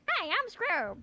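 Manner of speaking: perky mock greeting; upbeat Scrub impression. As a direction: brightly introduce yourself as a cheerful guy. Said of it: "upbeat and just like".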